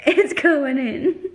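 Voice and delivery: high, drawn-out words through laughter; laughing. Real, not acted. Joking with companion after a fart question, laughing. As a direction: squeal it out, cracking up.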